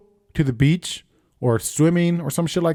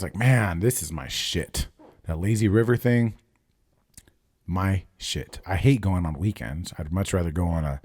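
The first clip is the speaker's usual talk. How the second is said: ordinary talk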